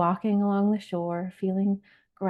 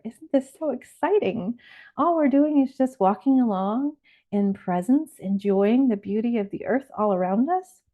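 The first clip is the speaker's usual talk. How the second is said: higher, lilting delight; gentle excitement; 4 semitones higher than usual. Acted. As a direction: share the wonder with a rising, delighted lilt. Acts delight at finding sea glass.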